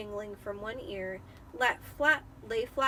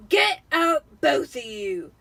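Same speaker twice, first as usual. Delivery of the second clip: croaked; 5 semitones higher, 12 dB louder, slower than usual. Acted. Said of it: "croaked Uncle Vernon".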